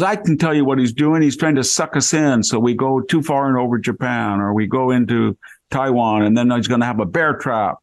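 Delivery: starts high, sinking back toward his own voice; a fading Valley Girl lilt, ending almost plain; Valley Girl impression. Retelling the consul's theory, Valley Girl voice slipping away. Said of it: "broke out in a Valley Girl accent".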